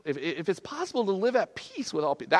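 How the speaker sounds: mock-daunted quoting; doubtful repeat. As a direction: balk at the words as you repeat them. Repeats verse as daunting demand.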